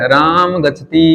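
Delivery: राम गच्छति drawn out for repeating; slow model phrase. Shown as a demonstration. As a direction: stretch राम and the final ti of गच्छति. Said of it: "बोलिया मेरे सागे सागे". (राम गच्छति खींचकर, साथ बुलवाते हुए)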